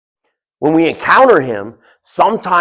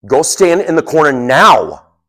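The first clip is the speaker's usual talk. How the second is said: stern pre-dad voice; 4 dB louder than usual. Retold or imitated. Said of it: "I used my pre-dad voice".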